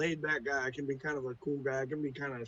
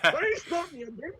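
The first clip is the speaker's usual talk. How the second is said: put-on mangled Scottish accent; 12 semitones higher, 4 dB louder than usual. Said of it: "such an amazing accent, which I slaughter".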